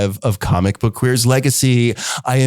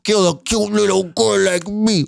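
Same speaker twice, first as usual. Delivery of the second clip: put-on baby voice; 4 semitones higher than usual. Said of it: "you're not gonna do the baby voice".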